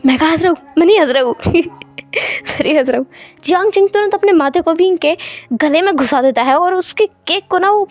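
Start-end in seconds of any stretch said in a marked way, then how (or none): 0.1-3.1 laughing. Acted. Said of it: "बहुत हंसी आ रही है ना तुम्हें".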